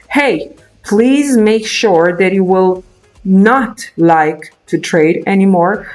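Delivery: normal talking voice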